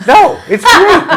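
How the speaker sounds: high, loud laughing protest. Real, not acted. Laughing while hosts joke.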